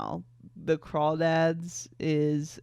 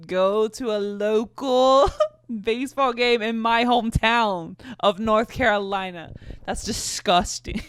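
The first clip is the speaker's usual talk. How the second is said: laughing cringe; 4 semitones higher, 5 dB louder than usual. Real, not acted. Cringing at teenage self.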